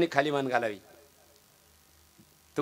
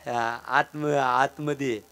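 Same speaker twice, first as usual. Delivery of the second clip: put-on timid boy; 2 semitones lower, 5 dB quieter, much slower than usual. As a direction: answer shyly like a scared child. Small boy answers meekly. (घाबरलेल्या मुलाचा हळू आवाज)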